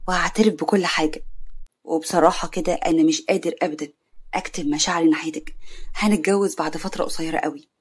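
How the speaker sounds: lightly voiced male sweetheart; smitten suitor Karim. Voices Karim confessing his love.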